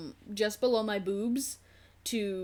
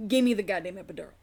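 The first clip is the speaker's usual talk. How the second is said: quick, louder mock yell of the demand; 5 dB louder, much faster than usual. In agony demanding the epidural, mild mock yell. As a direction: push it out harder like you're fed up. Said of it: "I'm screaming".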